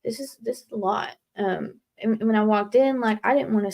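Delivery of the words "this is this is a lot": overwhelmed. Retold or imitated. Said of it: "and I'm like".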